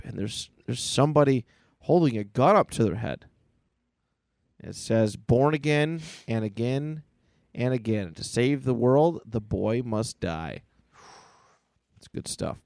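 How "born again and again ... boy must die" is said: slow, portentous read; dramatic cover reading. Acted. Reading a comic cover to co-host, slow and dramatic. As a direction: intone it slowly with weighty pauses.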